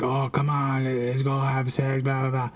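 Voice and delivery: mock a pushy pest, running on without pauses; mocking imitation. Teller mimicking the man pressuring him for sex, mocking.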